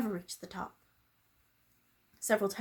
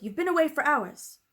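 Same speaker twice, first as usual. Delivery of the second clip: stern headmistress; 7 semitones higher, 5 dB louder than usual. Acted. Miss Minchin scolding Sarah.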